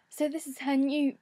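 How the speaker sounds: hoarse voice, nearly gone; rough, strained losing voice; losing her voice. Real, not acted. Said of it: "I'm really losing my voice".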